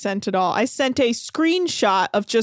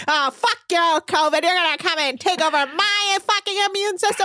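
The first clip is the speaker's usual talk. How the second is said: higher-pitched ranting cuss-out; playful retold outburst; mock tirade; 5 semitones higher than usual. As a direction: rant it as an indignant imitation. Acts out her tirade.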